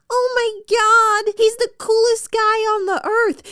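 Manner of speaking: mock gushing. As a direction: imitate a starry-eyed romance heroine. Mock quote of smitten romance heroine.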